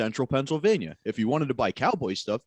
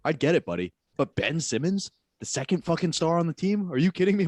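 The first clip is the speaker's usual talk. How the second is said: exasperated rant; 4 semitones higher than usual. Retold or imitated. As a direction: lay into him, half laughing. Ranting at customer, retold.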